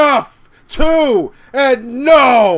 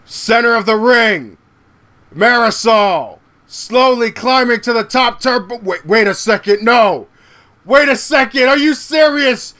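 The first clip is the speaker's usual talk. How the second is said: excited live play-by-play; wrestling commentator; 2 semitones higher than usual. Real, not acted. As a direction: call the match rising with hype.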